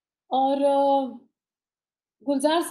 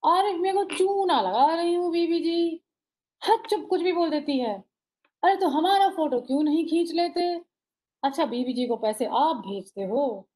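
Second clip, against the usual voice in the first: slow measured reading; 4 semitones higher than usual. Retold or imitated. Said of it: "उनका style है ये".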